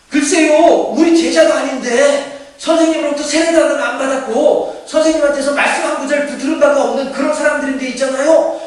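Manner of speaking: loud, high-pitched disciple tattling to his teacher. Acted. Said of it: "요한이 뭐라고 얘기를 하냐면은". (높고 큰 목소리로 스승에게 일러바치듯)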